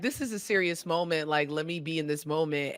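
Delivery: quiet, low imitation of solemn absorption; hushed serious viewer. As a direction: murmur it like an engrossed viewer. Voices absorbed viewer before interruption.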